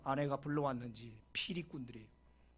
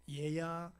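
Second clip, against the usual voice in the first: tender mother waking; much slower than usual. Shown as a demonstration. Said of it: "어머니가 다정하게 아침에 딸을 깨우는 그런 목소리예요".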